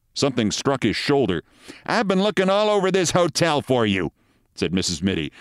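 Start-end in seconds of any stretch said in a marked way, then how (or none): 1.9-4.1 high, complaining wife's voice; nagging wife. Acted. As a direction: scold your husband in a high voice. Wife scolds husband she found.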